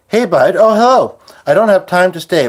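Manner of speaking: high, bright hello; excited greeting. Real, not acted. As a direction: greet a friend warmly. Greeting a viewer arriving.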